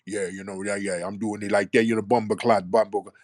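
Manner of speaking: imitation Brooklyn accent turning Jamaican; over-the-top Brooklyn-Caribbean accent; Brooklyn sliding into patois. Shown as a demonstration. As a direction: let Brooklyn talk slip into Jamaican patois. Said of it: "slide right into some damn Jamaican patois".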